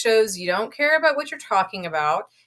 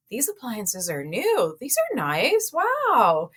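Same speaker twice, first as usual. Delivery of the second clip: enthusiastic agent; 3 semitones higher, slower than usual. Retold or imitated. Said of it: "point out a couple things".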